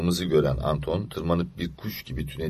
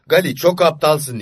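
loud, higher, scolding yell; angry shout; 10 semitones higher, 6 dB louder than usual. Acted. Stefan yelling at Gali who tripped on his ropes, angry. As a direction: snap at him for tripping on the ropes. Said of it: "diye bağırdı".

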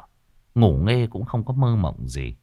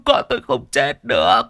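louder, pleading, falling on "được"; desperate denial; 4 semitones higher, 4 dB louder than usual. Acted. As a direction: insist through tears she can't be dead. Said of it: "đã mất bình tĩnh".

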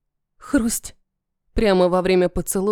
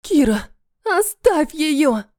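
much higher, slow, strained cry; horrified plea; 6 semitones higher, slower than usual. Acted. Mia watches in horror, high slow frightened plea. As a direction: beg him to stop, voice pitched up in horror. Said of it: "Мия в ужасе смотрит на нас".

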